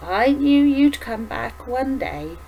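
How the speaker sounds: put-on slow, gentle old lady voice; a lightly voiced tender grandmother; slow old woman. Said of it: "the old woman spoke again".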